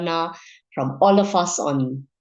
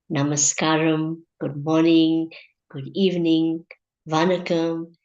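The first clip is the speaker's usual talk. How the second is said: measured, ceremonial host introduction; deliberate welcome in short, spaced phrases; formal programme opening. Acted. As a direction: open the session formally, pausing between phrases.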